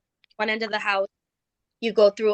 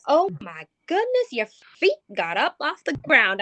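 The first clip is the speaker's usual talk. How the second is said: shocked; 6 semitones higher than usual. Retold or imitated. Friend shocked as she is shoved.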